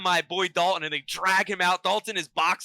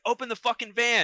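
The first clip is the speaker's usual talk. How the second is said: higher-pitched mock yell, no real volume; a contained, retold shouted order; 5 semitones higher than usual. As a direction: imitate a man yelling, held back. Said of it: "he's yelling at me".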